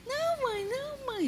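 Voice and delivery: put-on be a three-year-old saying no, mum; little girl voice. Mother retelling her toddler's reply in a high child voice. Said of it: "Pequenininha, não entendia".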